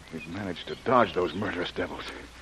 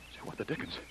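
startled whisper; 4 semitones higher, 11 dB quieter than usual. Acted. Alarmed over the girl's body.

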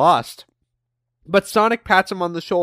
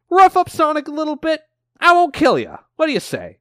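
Eggman voice; 9 semitones higher, faster than usual. Retold or imitated.

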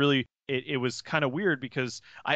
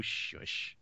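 whispered shush; 10 dB quieter than usual. Real, not acted. Teasing the co-host to hush.

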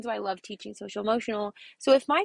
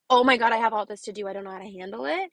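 mock panicked teacher; 4 dB louder, faster than usual. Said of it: "to the sense of".

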